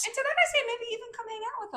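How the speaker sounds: high, playful put-on voice; mock proclamation. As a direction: announce it like a proud herald.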